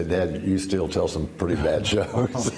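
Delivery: amused, laughing aside; laughing through it. Real, not acted. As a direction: let a laugh break into the last word. Kids teasing, he laughs.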